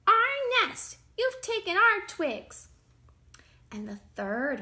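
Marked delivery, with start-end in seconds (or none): 0.1-2.7 high, loud, indignant bird voice; angry birds. A narrator's reading. Birds pull apart the twig house, angry. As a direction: cry out as an outraged bird. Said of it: "a flock of angry birds".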